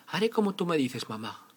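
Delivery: put-on high, sweet girl voice; little girl voice. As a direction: answer like an obedient little girl. Caperucita answers her mother.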